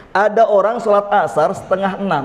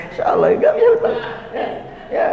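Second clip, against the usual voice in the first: playful shout; 14 semitones higher, faster than usual. Real, not acted. Joking with the congregation.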